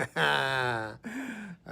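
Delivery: drawn-out laugh after the joke. Real, not acted. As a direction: laugh at your own punchline. Joker laughs after his punchline.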